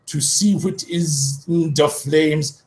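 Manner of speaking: put-on high, slow, old wizard voice; hammed-up high wizard drawl; Dumbledore. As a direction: play a strange old wizard, slow and lofty. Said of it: "Dumbledore said".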